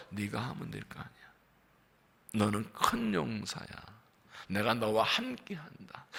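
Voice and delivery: quiet, steady voice of God; God speaking. Acted. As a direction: speak gently as God to Gideon. God answering Gideon.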